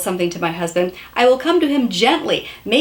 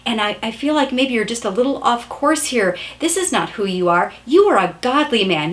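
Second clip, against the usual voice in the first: gentle tender words. Shown as a demonstration. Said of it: "very quietly, tenderly, gently".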